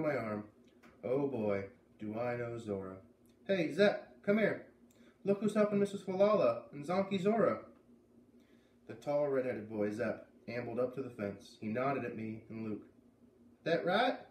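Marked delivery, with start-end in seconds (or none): 3.5-7.6 high, loud call across the farm. Acted. Beat calls Zep over. 13.6-14.2 put-on Maine accent. Zep asks.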